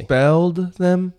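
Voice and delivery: incredulous high slow question; stunned, stretch it out; surprised. Real, not acted. Shocked at expulsion news.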